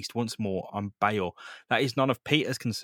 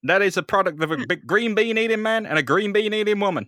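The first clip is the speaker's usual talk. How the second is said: booming proud father; 8 semitones higher, 6 dB louder than usual. Acted. Captain Stacy booming proudly.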